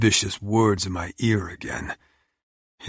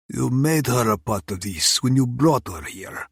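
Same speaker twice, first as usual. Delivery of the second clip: menacing villain; 4 semitones higher than usual. Acted. Oleg voiced, Russian villain.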